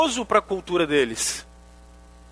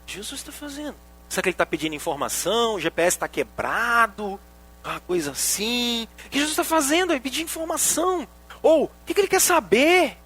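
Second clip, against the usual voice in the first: higher, baffled questioning; puzzled disciples; 4 semitones higher than usual. Retold or imitated. Preacher voicing startled disciples questioning Jesus, higher and baffled. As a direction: voice the disciples' confusion, pitched up. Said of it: "os discípulos ficaram assustados".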